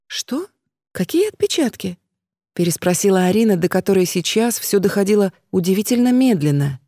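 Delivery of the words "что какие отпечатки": shocked. Acted. Shocked at fingerprint accusation.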